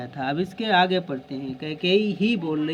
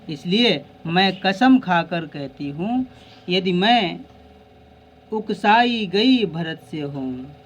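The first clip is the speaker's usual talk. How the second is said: Kaikeyi's oath; 4 dB louder, slower than usual. Acted.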